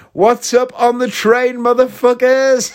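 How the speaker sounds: high, slow mock holler; imitated high-pitched yell, words drawn out; brazen shouted greeting. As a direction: holler it to a whole train carriage. Retelling defiant shout to whole carriage.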